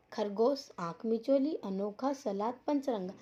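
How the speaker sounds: word list enunciated clearly, item by item; careful pronunciation. Shown as a demonstration. Teacher modelling the word list for pupils, careful pronunciation. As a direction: model each word cleanly for learners. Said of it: "इसका हमें शुद्ध उच्चारण करना है".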